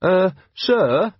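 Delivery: put-on a young officer urgently interrupting his commander. A narrator's reading. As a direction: cut in with urgency. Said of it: "said Carrant urgently".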